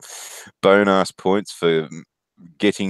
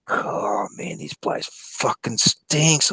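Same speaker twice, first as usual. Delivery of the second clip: mimicking Luke; 10 semitones higher, 3 dB quieter, much slower than usual. Offsider complaining about fart smell.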